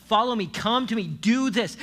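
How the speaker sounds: loud, high, urgent call; forceful, pleading commands; crying out. Acted. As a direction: call the crowd to you. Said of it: "he's crying out to them and he's saying".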